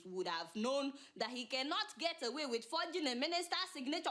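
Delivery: ordinary delivery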